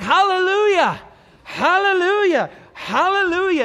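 high, slow ringing shout of praise; full-voiced preacher's cry; shouted hallelujah. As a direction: lift it to the rafters. Voicing heavenly crowd praise.

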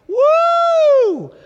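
high, slow, stretched-out woo shouted; whooping like a revival crowd; exultant shout. Real, not acted. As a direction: let it fly like a cheer. Preacher celebrates God's vengeance.

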